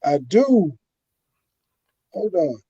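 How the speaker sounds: muffled, bubbling audio; underwater. Real, not acted. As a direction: sounds like talking underwater. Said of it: "like you was underwater".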